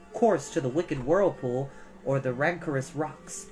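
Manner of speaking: plain reading voice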